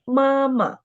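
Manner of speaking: "妈妈" said high and clear, with a light second syllable; model pronunciation. Shown as a demonstration. Teacher reading for students to repeat, careful model. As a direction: say "妈妈" carefully for the class to copy. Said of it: "请跟我读".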